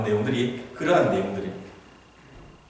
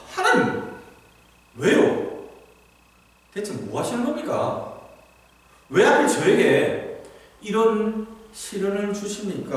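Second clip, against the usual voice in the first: resentful complaint; 4 semitones higher, slower than usual. Pretend. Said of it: "원망하는 게".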